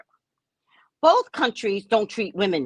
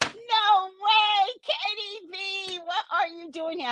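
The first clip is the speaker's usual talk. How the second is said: high, amazed disbelief; excited squeal of recognition; surprised high voice; 12 semitones higher, slower than usual. Pretend. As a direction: gush like a surprised friend. Surprised greeting.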